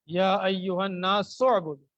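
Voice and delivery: slow chanted Quranic recitation; slow Arabic recitation. Shown as a demonstration. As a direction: recite slowly and fully, like tilawat. Teacher recites verse slowly.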